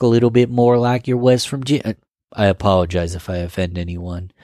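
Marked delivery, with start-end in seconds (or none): 0.0-1.8 hammed-up West Virginia twang; West Virginia accent. Shown as a demonstration. Imitating someone from West Virginia, put-on twangy accent. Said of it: "If you're from West Virginia".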